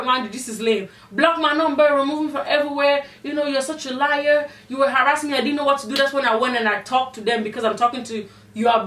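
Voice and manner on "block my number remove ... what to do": higher-pitched mock indignation; imitating him, raised and insistent; retold indignant accusation. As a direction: act out someone protesting and accusing. Retelling his accusations against her.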